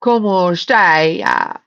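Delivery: slow, drawn-out bad Italian accent; poor Italian accent. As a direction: stretch it out in clumsy Italian style. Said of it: "I'm channeling Italian poorly".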